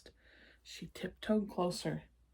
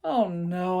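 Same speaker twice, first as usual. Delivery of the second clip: blurted; 6 dB louder than usual. Acted. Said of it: "I blurted".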